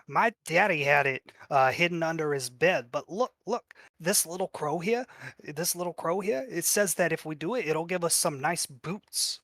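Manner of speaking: lightly voiced pleading kid; a hint of an excited child explaining; eager goblin child. Goblin child defending the coin to Inchi, lightly voiced eager kid.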